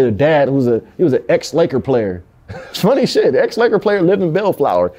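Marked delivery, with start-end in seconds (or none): 2.5-4.9 high-pitched, laughing aside; amused laughter. Real, not acted. Foster kid finding the memory funny, amused laughter. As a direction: laugh your way into the remark.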